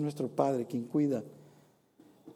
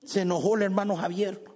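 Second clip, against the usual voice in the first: mock startled God; 4 semitones higher than usual. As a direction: ham up a scared reaction. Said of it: "Acaso Dios va a decir".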